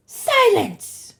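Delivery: loud, high, furious snarl; monster's sudden angry outburst; snarled command. A narrator's reading. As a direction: snarl to cut someone off. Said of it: "and Medusa snarled".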